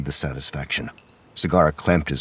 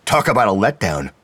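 loud, raised grumble; grousing; 4 semitones higher, 7 dB louder than usual. A narrator's reading. McBride let down by the silent tape player, grousing. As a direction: complain with open disappointment. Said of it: "McBride groused".

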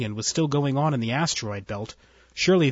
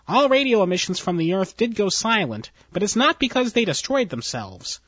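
higher, nervous underling voice; nervous officer; 5 semitones higher than usual. Acted. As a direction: report it anxiously to your boss. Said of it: "entered nervously".

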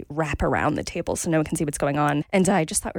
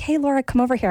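raised, cheerful call across the room; 7 semitones higher, 4 dB louder, faster than usual. Retold or imitated. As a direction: call her over, a bit louder and higher. Friend calling across the club.

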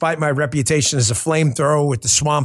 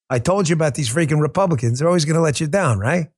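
New York accent. Shown as a demonstration. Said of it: "Back to my non-New York kind of speaking tone".

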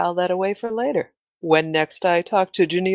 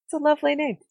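sultry voice; 9 semitones higher, faster than usual. Acted. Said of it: "sultry voice".

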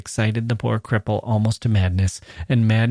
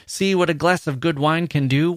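roaring tyrant king; 6 semitones higher than usual. Acted. King mocking the dwarf.

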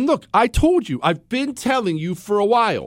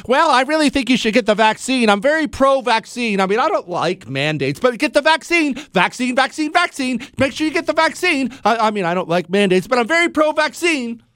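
high, quick mocking voice of a timid politician; lightly voiced wishy-washy politician; mocking impression; 4 semitones higher than usual. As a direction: parody a spineless pro-vaccine Republican. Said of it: "who's done this routine".

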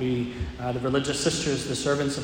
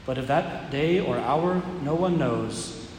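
measured solemn scripture reading; Gospel reading. Acted.

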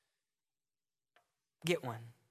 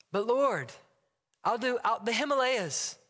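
eager pleading; 3 semitones higher than usual. Acted. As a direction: beg to be sent far away. Acted dialogue, Josh pleading.

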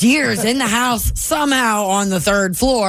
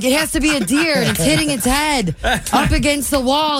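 higher-pitched mock-scared kid reasoning; retold terror; 5 semitones higher than usual. Storyteller voices terrified sleepover kids blaming a deer, mock alarm. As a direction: re-enact children convincing each other, lightly panicked. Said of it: "And we were all terrified".

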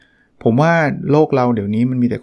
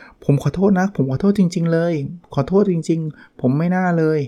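sincere apology; 5 semitones higher, slower than usual. Shown as a demonstration. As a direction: apologise like you truly regret it. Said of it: "ฟังดูแบบน่าให้อภัยอะ".

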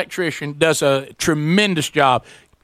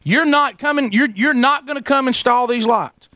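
higher mock of an upset wife; 7 semitones higher than usual. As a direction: imitate his wife's upset disbelief, pitched up. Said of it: "I hear her going".

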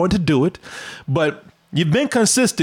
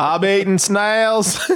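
put-on Australian accent; slower than usual. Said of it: "that Australian hide in the".

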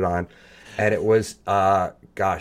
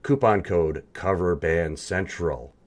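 slow promo announcer voice; radio ad read; much slower than usual. Acted. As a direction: sell it like a radio spot. Reads sponsor plug.

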